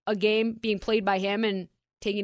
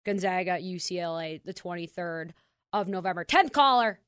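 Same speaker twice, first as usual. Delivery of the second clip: radio contest promo. Acted. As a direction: hype the ticket giveaway. Ticket giveaway on air.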